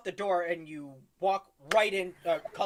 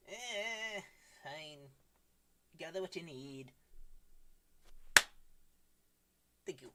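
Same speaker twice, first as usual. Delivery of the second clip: grumpy shopkeeper; 9 dB quieter than usual. Acted. Grumpy shopkeeper Lorwal answers.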